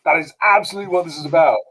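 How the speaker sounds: sarcastic agreement. Retold or imitated. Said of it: "And I'm like".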